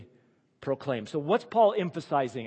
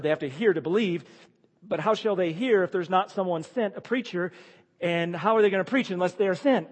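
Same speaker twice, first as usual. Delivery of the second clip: building preaching; 4 semitones higher, 6 dB louder than usual. Real, not acted. Building rhetorical questions.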